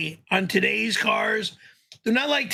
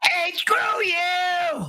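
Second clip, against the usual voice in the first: shouted slowly in the usual fake voice; 9 semitones higher, much slower than usual. Shown as a demonstration. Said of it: "No, that's the fake voice".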